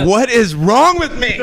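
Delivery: high, slow laughing disbelief. Real, not acted. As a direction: laugh at yourself in dismay.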